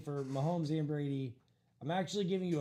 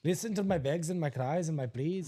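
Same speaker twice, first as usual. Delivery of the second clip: lightly put-on Irish accent; mimicked Irish lilt. Co-host echoing host's plea, mimicked Irish lilt. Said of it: "Sounds like he was playing in Dublin this morning".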